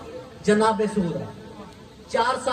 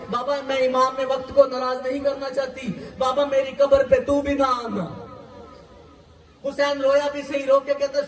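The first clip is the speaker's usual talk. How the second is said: impassioned preacher's lament, voice pitched up and straining; keen the tale of Sugra for the mourners; mourning majlis recitation; 2 semitones higher than usual. Acted. Preacher recounting Sugra's farewell to mourners, in a tearful lament.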